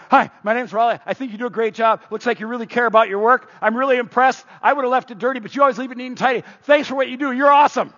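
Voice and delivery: keen, rising to a cheer; eager praise. Retold or imitated. Man thanking a construction worker, eager. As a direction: gush your thanks to him. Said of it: "I go".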